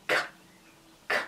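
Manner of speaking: bare K, no vowel after; pure K sound. Shown as a demonstration. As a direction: click out "K" with no vowel. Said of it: "Qual seria o som do K?". (K seco, sem vogal)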